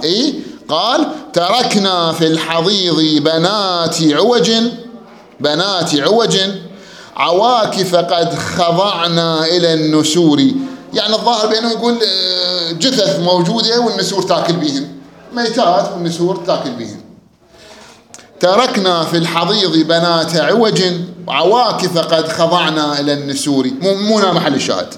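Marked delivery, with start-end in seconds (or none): 1.3-10.4 slow, drawn-out poetry recitation; verse recitation. Acted. Teacher reciting a cited verse to students, slow recitation. 18.4-23.7 slow, drawn-out poetry recitation; verse recitation. Acted. Teacher reciting a cited verse to students, slow recitation.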